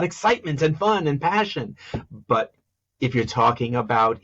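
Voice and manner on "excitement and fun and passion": lively, higher-pitched enthusiasm; energetic lift on each listed word; excited. Shown as a demonstration. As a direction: sell the thrill with bouncing pitch. Demonstrates NASCAR tone.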